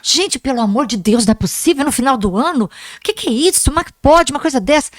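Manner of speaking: pleading teacher's sermon, rising in pitch; retold sermon. Teacher lecturing her squabbling pupils at year's end, pleading reproach. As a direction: re-enact an exasperated but affectionate telling-off. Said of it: "Aí passei aquele sermão".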